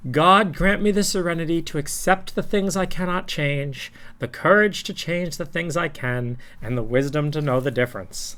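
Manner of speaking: earnest recital of the serenity prayer; reciting a prayer. Acted.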